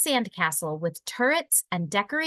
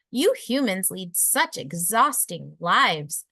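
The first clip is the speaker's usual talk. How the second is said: sighed; 3 semitones lower, slower than usual. Acted. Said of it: "sighed Aqua".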